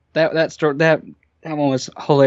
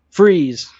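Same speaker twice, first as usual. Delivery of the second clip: lightly acted police order, pitched higher; police command; 5 semitones higher than usual. Officer catching trespassers outside the house, mock command. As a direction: mimic an officer's sudden command.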